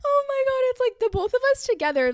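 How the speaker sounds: high, loud helpless laughter; laughing fit while retelling the story; real laughing fit. Real, not acted. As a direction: laugh so hard the words squeak. Laughing hard at the memory.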